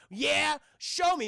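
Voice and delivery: loud, high, slow dare; mock tough challenge. Thug daring the stranger, loud and slow. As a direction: dare him, drawn out.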